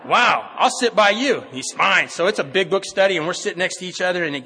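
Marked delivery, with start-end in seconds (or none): 0.1-1.4 loud, high, drawn-out mock wonder; big swooping sarcastic reply; mock-impressed. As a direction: stretch it out in exaggerated, sarcastic delight. Retold wry reply to rude greeter.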